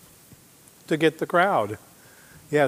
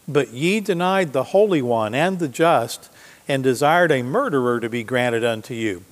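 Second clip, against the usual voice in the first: a raised, declaiming Bible reading; scripture reading; 3 dB louder than usual. Acted. Preacher reading Peter's words to the congregation, declaiming. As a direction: proclaim the verse to the congregation.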